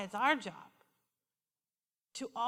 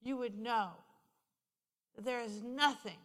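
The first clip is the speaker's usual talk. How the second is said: soft, unhurried retold comfort; tender reassurance; 5 dB quieter than usual. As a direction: reassure her quietly, letting phrases rest. Consoles crying woman in retold talk.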